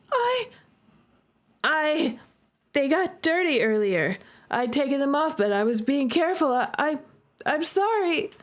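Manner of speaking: flustered, stumbling excuse; stammering apology. Acted. Friend apologizing after hurting her brother, stammering. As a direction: trip over the words guiltily.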